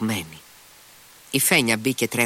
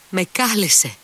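much higher and louder cry; 10 semitones higher, 4 dB louder than usual. A narrator's reading. Grushenka after reading the letter, crying out high. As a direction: burst out, overwhelmed. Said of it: "φώναξε κατάχλωμη".

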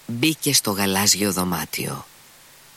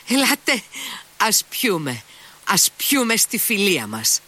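high, ringing exaltation; exalted toast; 5 semitones higher than usual. A narrator's reading. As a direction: Mitya inviting all to drink, high exalted cry. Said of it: "φώναξε με έξαρση".

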